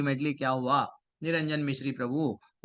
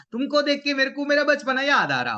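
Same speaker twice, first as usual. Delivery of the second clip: high, louder, delighted recollection; happy nostalgia; 9 semitones higher, 5 dB louder than usual. Acted. Old man telling children they recall his childhood, happily nostalgic. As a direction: let the pitch soar with joy. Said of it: "मेरे को खुशी हो रही है".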